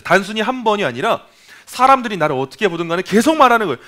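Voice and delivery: ordinary talk, nothing marked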